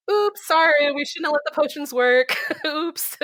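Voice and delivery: light sheepish mock apology; mock developer apology. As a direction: act out a guilty dev's oops.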